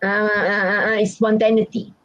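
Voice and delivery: halting, repeated uh sounds, then spontaneity; mock stutter. Shown as a demonstration. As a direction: stammer on uh before the word spontaneity. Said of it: "don't stutter".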